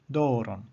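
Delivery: "doron" with a long DO, falling; stress on first syllable. Shown as a demonstration. Teacher repeating the long-vowel example, "doron" stressed on DO. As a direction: lengthen and accent the DO of "doron". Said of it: "Here we have the accent upon the penult".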